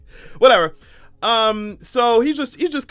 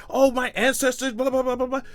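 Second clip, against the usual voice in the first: mock whiny ancestors; 5 semitones higher than usual. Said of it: "invoking their ancestors".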